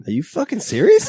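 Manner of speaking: a Boston fan blasting a stranger for doubting Brady; mock outraged. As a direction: blast him in disbelief. Acting out rant at stranger.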